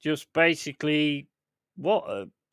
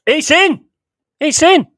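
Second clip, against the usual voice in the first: ecstatic scream, much higher and louder; long goal yell; 13 dB louder than usual. Real, not acted. Goal scored in live commentary.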